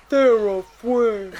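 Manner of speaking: lightly voiced monster calling a friend; a hint of a lumbering creature's call; Ludo. Co-host imitating the creature calling Sarah, lightly voiced. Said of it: "Sounds like Ludo".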